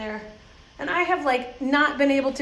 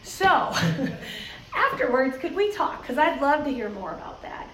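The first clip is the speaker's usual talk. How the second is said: laughing interruption; 3 semitones higher than usual. Retold or imitated. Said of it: "I finally said".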